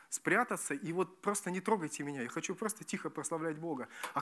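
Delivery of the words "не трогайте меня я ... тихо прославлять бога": softly asking to be left alone; quiet shy plea. Acted. Shy worshipper asking to be left alone, quiet. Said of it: "просто сесть в уголок тихонько".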